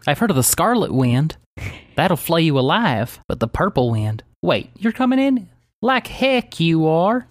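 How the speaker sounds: folksy character voice, jumping high in disbelief; puzzled, then high-pitched defiant protest; indignant Daisy. Acted. Game master plays defiant Daisy.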